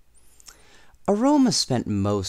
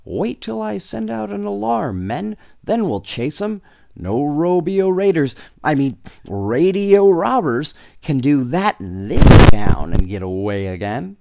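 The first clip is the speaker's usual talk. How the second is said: higher, louder blustering lawman; sheriff shouting; 6 semitones higher, 8 dB louder than usual. A narrator's reading. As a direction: bellow orders like a riled small-town sheriff. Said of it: "before the sheriff shouted".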